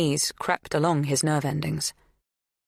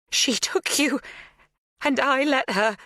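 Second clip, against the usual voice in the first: louder anguish; 10 semitones higher than usual. A narrator's reading. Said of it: "Her voice is louder".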